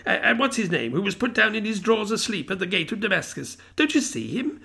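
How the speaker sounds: high, eager, half laughing half crying; an old man giddy with childhood memories; excited old Scrooge. A narrator's reading. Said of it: "a most extraordinary voice between laughing and crying".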